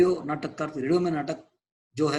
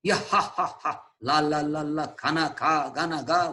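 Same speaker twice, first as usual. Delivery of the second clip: laughing singsong; slower than usual. Acted. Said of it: "बोलता है".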